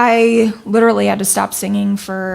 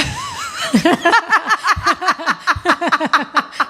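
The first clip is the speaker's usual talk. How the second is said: long breathy laugh; laughing fit; 10 semitones higher than usual. Real, not acted. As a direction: burst out laughing. Breaks into laughter mid-sentence.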